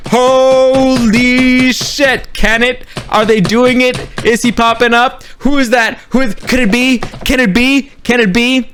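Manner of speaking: high, awestruck fan questioning; mounting disbelief. Retold or imitated. Replays mounting disbelief at the entrance.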